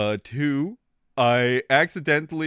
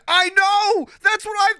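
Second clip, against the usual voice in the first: very high, loud outburst; shrieked, worked-up agreement; exasperated shout; 6 dB louder than usual. Real, not acted. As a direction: cry out in emphatic agreement. Exclaims agreement with a commenter.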